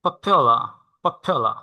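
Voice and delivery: popular said slowly syllable by syllable, po-pyu-la; pronunciation demo. Shown as a demonstration. Teacher modelling popular for the student, slow and clear. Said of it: "উচ্চারণ হচ্ছে".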